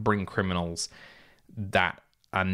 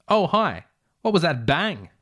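surprised; 6 semitones higher than usual. Retold or imitated. Voicing himself surprised on phone.

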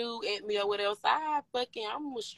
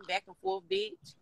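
taunting high; 10 semitones higher, 6 dB quieter than usual. Real, not acted. Defiant taunt at LaRue.

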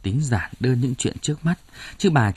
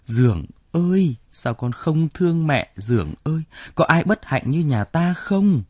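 wailing lament; 5 semitones higher than usual. Acted. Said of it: "gào lên khảm thiết".

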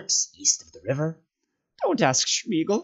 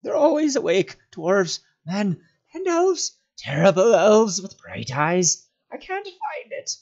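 very high, anguished creature wail; broken, high-pitched creature crying; sobbing in the throat; 7 dB louder than usual. A narrator's reading. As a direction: sob and gulp through the words. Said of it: "he sobbed in his throat".

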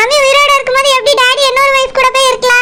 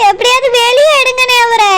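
tearful plea. Acted. Tearful wife pleads.

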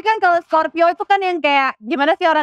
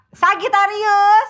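drawn-out, higher-pitched call; 5 semitones higher, much slower than usual. Acted. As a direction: stretch it out like a roll-call. Calling out signs like roll-call. (berseru memanggil dengan nada panjang)

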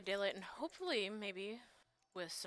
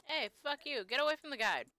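angry yell; 6 semitones higher, 7 dB louder than usual. Real, not acted. Yelling at game enemy.

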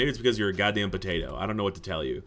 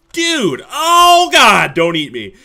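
high, loud panicked yell; startled shout; 11 semitones higher, 15 dB louder, much slower than usual. Real, not acted. Player jumping at a potato creature, loud and high. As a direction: shriek at the monster in mock terror.

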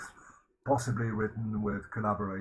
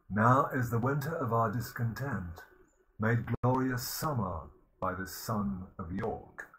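reciting verse. Shown as a demonstration. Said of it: "let's have a go at those flowing iambic pentameters".

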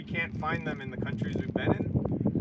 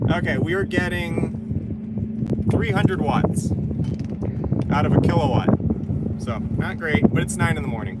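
raised voice against the wind; shouting over wind; 6 dB louder than usual. Real, not acted. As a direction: call it out over gusts. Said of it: "Sorry about the wind noise".

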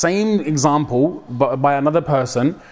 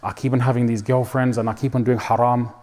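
upset confession; 4 semitones lower, 5 dB quieter than usual. Retold or imitated. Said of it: "he was really upset and he was crying".

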